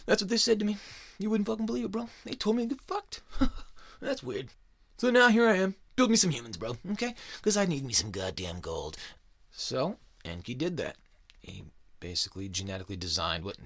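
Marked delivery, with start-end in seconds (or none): 0.1-9.0 much higher, louder whiny complaining god; hammed-up bro boss griping about lazy workers; Enlil's whiny boss voice.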